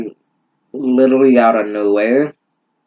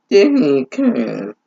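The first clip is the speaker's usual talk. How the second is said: put-on girly voice. High girly voice for Reichu.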